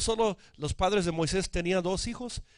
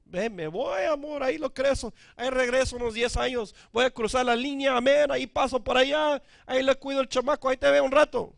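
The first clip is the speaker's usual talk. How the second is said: lightly voiced father, higher and casual; breezy departing father; 6 semitones higher, faster than usual. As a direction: toss it off like a dad skipping town. Father leaving the family, voiced. (padre despreocupado que se va, voz más aguda)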